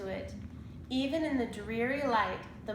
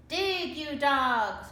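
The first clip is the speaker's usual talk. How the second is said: slow, louder, higher pirate yell; cried; 5 semitones higher, 6 dB louder, slower than usual. A narrator's reading. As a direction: drive the crew on angrily. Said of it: "cried Captain Bones".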